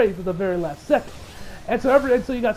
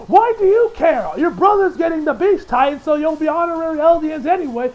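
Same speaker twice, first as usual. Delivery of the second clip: enraged; 6 semitones higher, 4 dB louder than usual. Retold or imitated.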